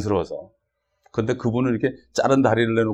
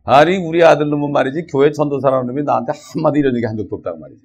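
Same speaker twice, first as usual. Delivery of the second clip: louder, a grandfather's mock furious rant; old man furious that his preacher son never evangelized him, mock angry; 2 semitones higher, 7 dB louder than usual. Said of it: "화를 벌컥 내더라는 거야".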